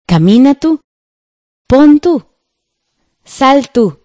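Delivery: mock orders for the tú version; acted tú commands. Shown as a demonstration. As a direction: act out the tú commands. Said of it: "Si utilizáramos el tú, sería".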